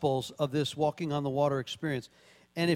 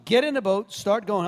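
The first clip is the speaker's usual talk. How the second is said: loud order; 3 semitones higher, 6 dB louder than usual. Retold or imitated. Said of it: "he tells them".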